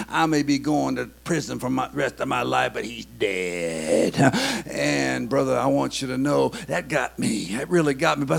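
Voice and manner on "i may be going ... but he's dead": cold murderer. Retold or imitated.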